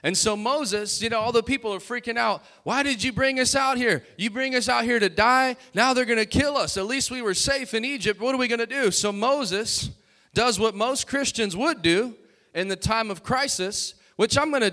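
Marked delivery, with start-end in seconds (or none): 2.6-8.9 panicked crowd. Retold or imitated. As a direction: whine like scared people trapped. Panicked Israelites quoted.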